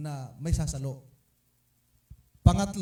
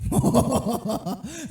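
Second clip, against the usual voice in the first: laugh; 6 semitones higher, 6 dB louder than usual. Real, not acted. Laughs at his own story.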